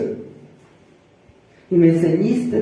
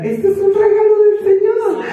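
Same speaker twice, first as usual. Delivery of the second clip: emphatic; 10 semitones higher than usual. Retold or imitated. Mother insists to her son Natán, emphatic. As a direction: press it home to him.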